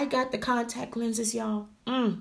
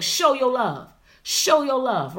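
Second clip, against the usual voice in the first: Steve Harvey; 4 semitones higher, 4 dB louder than usual. Retold or imitated. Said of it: "Just like Steve Harvey".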